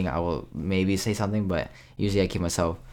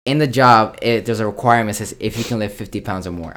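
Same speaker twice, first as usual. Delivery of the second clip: louder, firmer, slowing on "Look, in the job"; loud retold retort; 2 semitones higher, 5 dB louder than usual. To his manager about lifting, a loud firm retort. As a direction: lay down the rule to the manager. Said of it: "I was like".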